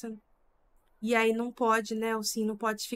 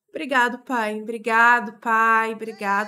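loud thanks; 7 dB louder than usual. Real, not acted. Thanking sim parent.

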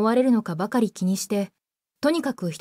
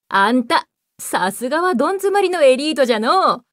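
put-on creaky wise old man; 2 semitones higher, 5 dB louder than usual. Old master appears and speaks.

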